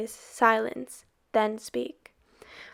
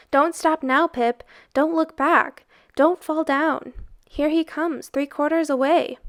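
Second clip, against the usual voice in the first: urging on; 4 semitones higher, 3 dB louder than usual. Acted. Boys urging Pipkin on.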